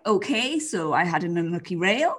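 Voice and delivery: a hint of a rider explaining a knocked pole; show jumper interview. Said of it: "when the show jumpers are like".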